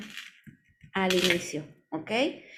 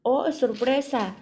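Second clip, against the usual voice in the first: higher, slow exclamation of surprise; 4 semitones higher, slower than usual. Shown as a demonstration. Teacher showing students what exclamation marks mean, exclaimed. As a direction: exclaim it with demonstrative surprise, drawn out. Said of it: "utilizamos lo que son los signos de admiración".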